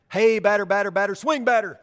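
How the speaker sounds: mock the batter like a Little League fielder; yelled infield chatter. Little League fielder heckling the batter, loud sing-song chatter. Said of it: "you would actually yell at the batter".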